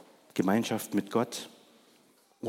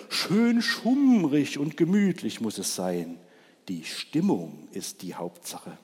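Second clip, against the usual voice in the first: lightly voiced cosy owl; a hint of the hooting owl; 2 semitones higher than usual. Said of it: "heulte die Eule". (Die Eule wünscht sich gemütliche Stimmung, leicht gespielt)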